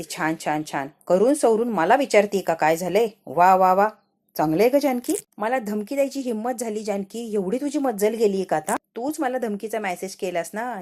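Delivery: retold sarcastic scolding; mock-praise, then accuse, mildly acted; scolding rant. Mother-in-law accusing her of a threatening message, scolding. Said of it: "Sumitra बडबड करायला लागलेली असते".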